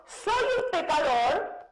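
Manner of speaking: slow, drawn-out confession; a lightly voiced religious man; religious person's confession. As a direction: say it like a pious penitent. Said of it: "una persona dice".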